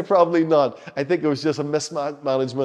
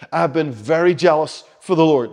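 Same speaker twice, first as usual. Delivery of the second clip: heartfelt plea, a little louder; pouring out his heart; 5 dB louder than usual. Retold or imitated. Elijah answering God in the cave, pouring out his heart. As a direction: declare it like a heartfelt complaint. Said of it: "He's pouring out his heart".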